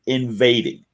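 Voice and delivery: "invading" set apart and weighed; pointed emphasis on "invading"; stressed word. Shown as a demonstration. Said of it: "I'm using the word specifically".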